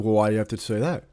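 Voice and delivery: fast, huffy mock commenter; mock offended commenter. Imitating a touchy commenter, quick and huffy. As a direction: fire it back like an offended stranger. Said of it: "It's like".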